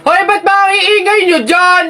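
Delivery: acted indignant telling-off; annoyed scolding. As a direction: call out a complaint at noisy rivals. Acted scolding of noisy kids.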